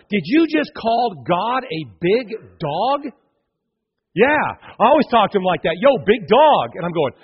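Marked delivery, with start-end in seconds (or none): 0.1-3.1 slow, disbelieving question; acted incredulity. Preacher confronting the youth pastor in retelling, incredulous. 4.1-6.7 loud, breezy imitated reply; casual youth pastor. Youth pastor answering the shocked preacher, loudly casual. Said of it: "This is a casual Christian".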